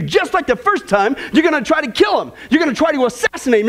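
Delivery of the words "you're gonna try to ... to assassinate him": mock shout. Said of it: "I know exactly what you're gonna do".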